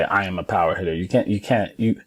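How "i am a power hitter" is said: casual, toneless recital without conviction; unconvinced. Shown as a demonstration. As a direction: toss it out as mere words. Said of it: "and just say".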